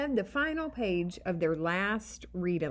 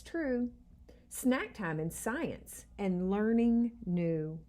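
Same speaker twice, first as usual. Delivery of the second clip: poem recital. A narrator's reading. Reading the class poem.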